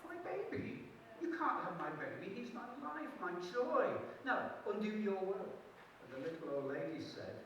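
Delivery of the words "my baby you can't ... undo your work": high, frantic refusal; mother refusing to give up her baby, high and frantic; horrified mother. Acted. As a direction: plead and protest at once.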